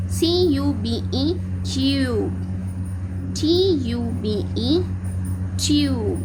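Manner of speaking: slow, letter by letter, then ट्यूब; slow phonics spelling. Shown as a demonstration. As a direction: spell it out slowly for the class. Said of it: "तो हम कैसे पढ़ेंगे".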